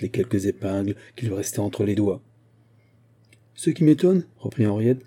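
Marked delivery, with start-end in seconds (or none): 3.6-4.2 much higher, louder sharp start; high indignant outburst. Acted. Henriette complains to Mouret about the girl, high and indignant. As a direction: let the fury break out.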